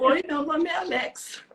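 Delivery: lightly voiced girl spirit; a hint of a young girl introducing herself; voz de menina. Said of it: "uma voz de menina". (voz de menina, de leve)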